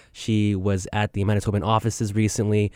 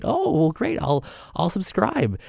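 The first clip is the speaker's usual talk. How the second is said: quoting the journalist; 8 semitones higher, slower than usual. Retold or imitated. Quoting Nahlah's polite reply.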